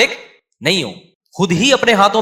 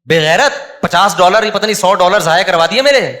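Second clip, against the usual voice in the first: angry mother scolding; 5 dB louder than usual. Retold or imitated. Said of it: "وہاں تو شور مچایا ہوا تھا".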